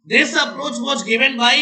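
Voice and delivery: very slow, word-by-word dictation; dictating. Real, not acted. Teacher reading notes to the class, dictating slowly. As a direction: stretch each word for note-takers.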